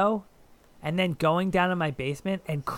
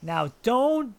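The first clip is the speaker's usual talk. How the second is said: stern teacher voice, raised pitch; teacher warning; 5 semitones higher than usual. Retold or imitated. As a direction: scold like a teacher. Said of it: "being like".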